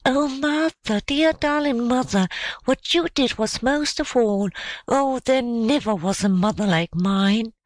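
put-on high, fervent child voice; adoring child, lightly acted; loving little girl. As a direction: gush tenderly to mother, pitched high. Child lovingly reassures her mother.

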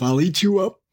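high put-on wolf voice; threatening wolf cry. A narrator's reading. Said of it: "cried the wolf".

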